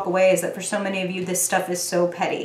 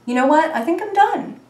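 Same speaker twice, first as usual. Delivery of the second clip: voicing fed-up reader; 9 semitones higher than usual. Voicing the reader who is done with it. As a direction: toss it off as done. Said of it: "just like".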